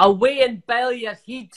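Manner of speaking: Scottish insult shown for a learner; Scottish accent. Shown as a demonstration. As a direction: model a Scottish put-down. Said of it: "give me a Scottish thing to say".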